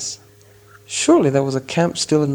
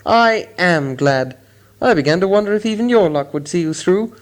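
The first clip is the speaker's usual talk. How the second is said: delighted; 5 semitones higher than usual. A narrator's reading. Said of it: "he was delighted".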